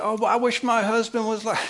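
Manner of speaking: high, wistful sister's voice; envious sister. Retold or imitated. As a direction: sigh it like a jealous sister.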